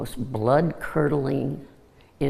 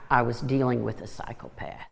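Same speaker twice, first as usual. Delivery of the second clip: voice cracking. Real, not acted. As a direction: voice cracking with real emotion. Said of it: "Listen to my voice crack".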